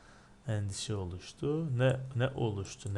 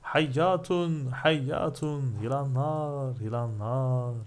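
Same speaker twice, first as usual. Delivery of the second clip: raised, higher-pitched cries of alarm; mock crowd scream; 4 semitones higher, 3 dB louder, slower than usual. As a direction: act out a crowd crying out. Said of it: "Nasıl bağırmışlar?". (bağıran kalabalığı taklit, yüksek perdeden)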